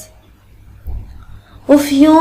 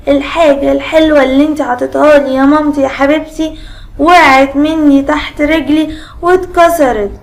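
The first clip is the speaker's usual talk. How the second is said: slightly higher, whining complaint to mummy; lightly acted crying little one, pitch held up; mock tearful child; 3 semitones higher than usual. Letter Alef crying to his mother over the broken gift, mock tearful whine. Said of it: "راح فضل يعيط ويقول لمامته".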